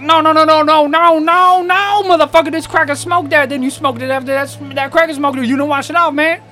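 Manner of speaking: very high, loud string of no's; frantic brother. Retold or imitated. Older brother blaming him, very high and loud. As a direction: yelp the no's way up high, then keep scolding. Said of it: "he goes".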